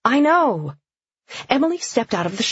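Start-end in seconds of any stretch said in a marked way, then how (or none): 0.1-0.8 calling back. A narrator's reading. Answering Frida's call from shower.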